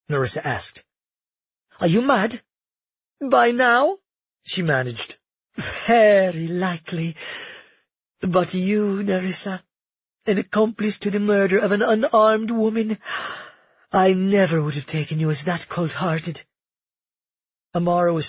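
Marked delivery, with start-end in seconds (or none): 1.8-4.0 high, loud disbelief; near-hysterical amazement; incredulous. Acted. Mocking bewildered replies. 5.5-16.4 high, loud scornful accusation. Acted. Felix accuses Nerissa.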